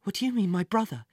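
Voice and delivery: startled, hurried question; shocked. Acted. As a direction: ask it taken aback. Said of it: "he said, shocked".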